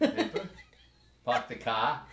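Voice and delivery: "Park the car" said with dropped r, pahk the cah, laughing; playing the Boston accent game; laughing Boston accent demo. Shown as a demonstration. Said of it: "In the Harvard Yard?".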